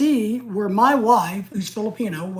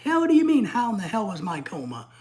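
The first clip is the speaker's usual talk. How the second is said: angry retort; 3 semitones higher than usual. Retold or imitated. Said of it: "You know, I'm like".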